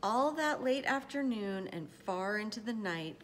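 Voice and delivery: measured, expressive picture-book reading; storyteller pacing out each phrase; story narration. A narrator's reading. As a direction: read it aloud to children, with care. Reads a picture book aloud.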